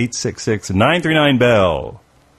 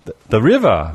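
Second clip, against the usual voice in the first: mock Chinese accent. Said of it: "you said, from Chinese medicine".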